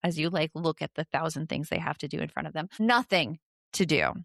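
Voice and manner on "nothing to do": put-on bored kid. Shown as a demonstration. Kid ignoring a thousand things to do, mildly whiny and bored. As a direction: draw out a controlled bored complaint. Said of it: "they're usually doing it kind of like this".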